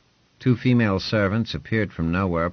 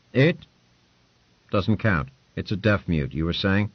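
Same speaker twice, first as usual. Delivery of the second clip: lordly patron; 3 semitones higher than usual. Acted. Lord Ponce quizzing Hugh, a lightly voiced, brisk lord. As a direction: talk down like a lord testing a servant.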